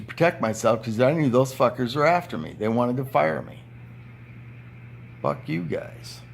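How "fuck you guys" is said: soft unvoiced whisper of defiance; whispered curse. Real, not acted. Worker muttering at management, whispered and slow. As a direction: breathe it out slowly under your breath.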